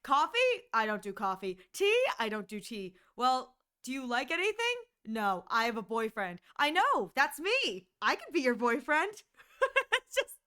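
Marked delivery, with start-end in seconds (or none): 0.0-6.4 cheesy fan fiction exchange; fanfic dialogue. Pretend. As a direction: read a bad fanfic aloud. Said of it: "the pickup line is".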